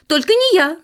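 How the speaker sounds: high, loud mouse squeak; squeaked refusal. A narrator's reading. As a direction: squeal it like a mouse dodging work. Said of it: "запищал Круть". (пискляво отказывается)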